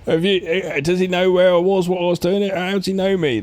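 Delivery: rattled. Retold or imitated. Russell Crowe rattled retold.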